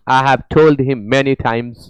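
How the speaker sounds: slow, word by word English; deliberate teacher reading; slow dictation reading. Shown as a demonstration. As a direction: read it out slowly for the class. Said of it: "reads the sentence slowly".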